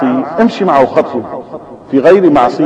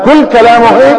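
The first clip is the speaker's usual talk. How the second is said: كل كلامه هيك asked much higher with a rising wonder; amazed question; 7 semitones higher, 3 dB louder than usual. Shown as a demonstration. Preacher restates the old man's wonder, amazed question. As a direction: rise up in delighted amazement on كل. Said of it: "أو كل كلامه مثل هذا؟".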